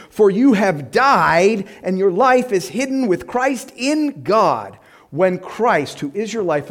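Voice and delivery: measured reading of the verses; scripture reading. Acted. Preacher reading verses to congregation, measured. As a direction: read scripture with weight. Reads Colossians aloud.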